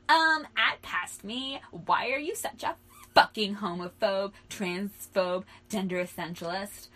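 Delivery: loud, indignant call-out; mock outrage. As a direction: confront your past self with exaggerated disgust. Mock outrage at their past self.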